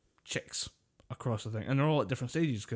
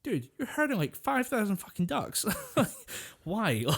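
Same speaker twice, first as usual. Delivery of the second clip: incredulous laughing; 10 semitones higher than usual. Retold or imitated. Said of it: "You're like".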